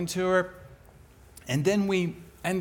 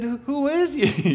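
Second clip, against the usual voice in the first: much higher and louder, eager; eager question; 10 semitones higher, 5 dB louder than usual. Retold or imitated. Speaker quizzing the neighbor, excited and loud. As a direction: jump in, dying to know.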